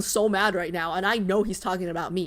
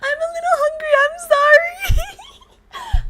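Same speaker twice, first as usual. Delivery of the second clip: laughing hard; 7 dB louder, slower than usual. Real, not acted. Cracking up at her own slip.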